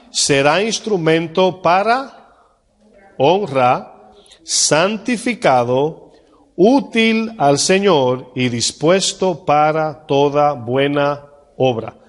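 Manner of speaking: reading each phrase slowly and solemnly, pausing between them; slow scripture reading. Acted. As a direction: lay out the verse word by word for the congregation.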